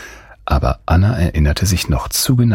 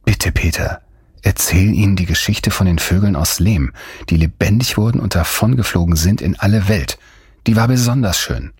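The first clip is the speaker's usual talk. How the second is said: put-on higher, pleading girl; Anna, begging; 4 semitones higher than usual. Girl begging Peter to tell the bird story. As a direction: beg him, brightening at the end.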